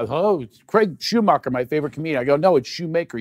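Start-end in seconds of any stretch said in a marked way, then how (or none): 0.1-2.2 gushing fan. Retold or imitated. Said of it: "That's what people". 2.3-3.2 SHOEMAKER said as shoe plus maker, higher; corrected surname. Retold or imitated. Guest correcting fans who mangle his surname, emphatic Shoemaker. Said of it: "I love the Shoemaker instead of Schumacher".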